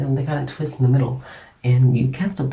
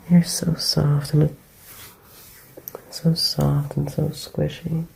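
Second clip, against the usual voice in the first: hushed, soothing voice for a sleeper; close, tender murmur with pauses; tender bedtime comforter; 2 semitones higher than usual. Acted. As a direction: comfort a loved one drifting off to sleep. Comforts a sleeping loved one.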